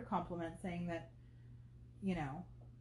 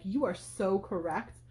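flattering; slower than usual. Retold or imitated. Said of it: "complimenting her intelligence".

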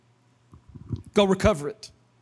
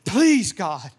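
earnest plea, leaning on Please; begging plea. Shown as a demonstration. Preacher shows how sha'al sounds, begging. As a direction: beg God with real need. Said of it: "Sometimes sha'al just sounds like this".

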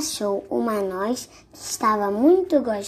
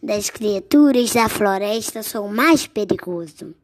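indignant mouse; 4 dB louder than usual. Acted. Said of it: "exclamou o ratinho".

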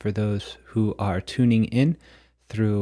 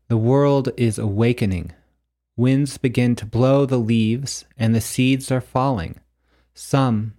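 measured, declaimed poem with deliberate pauses; prose poem reading; 3 dB louder than usual. Acted. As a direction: read it like a solemn prophecy, phrase by phrase. Reads own prose poem aloud.

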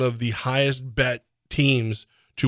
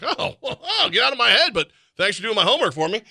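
mock surprise; 9 semitones higher than usual. Reacting to article matching his thought.

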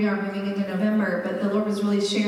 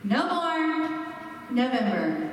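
"No More" drawn out and lifted, a break, then "November" dropping; pause after MORE; slower than usual. Shown as a demonstration. Preacher announcing the series title, "No More" set apart from "November". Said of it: "that is a complete phrase".

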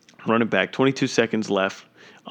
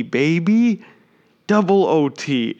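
hyped call; 6 semitones higher, 3 dB louder, slower than usual. Real, not acted.

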